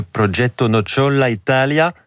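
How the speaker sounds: "Progetto Nocciola Italia" said the Italian way, with rolled r and open vowels; Italian pronunciation. Shown as a demonstration. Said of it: "surtout avec mon accent".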